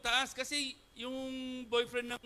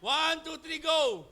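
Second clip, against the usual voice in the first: countdown call; 4 semitones higher, 5 dB louder, much slower than usual. Real, not acted. Countdown called to the crowd.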